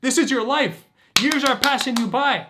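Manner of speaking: grab him by the shoulders with your voice; shaking them awake. Acted. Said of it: "take 'em and shake 'em and say".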